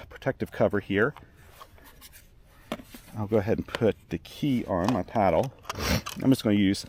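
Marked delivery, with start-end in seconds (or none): 3.2-6.9 stuffy sniffly nose. Real, not acted. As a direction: talk through a sniffly nose. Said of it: "sorry, I'm sniffly".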